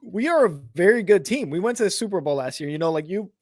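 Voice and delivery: talking through burps; words pushed out on a burp. Real, not acted. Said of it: "Sorry, I'm speaking through burps".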